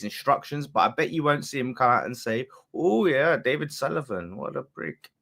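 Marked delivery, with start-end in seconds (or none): 2.7-5.1 put-on lightly done German accent. Streamer imagining the striker slagging the owner, put-on German accent. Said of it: "sorry for that accent".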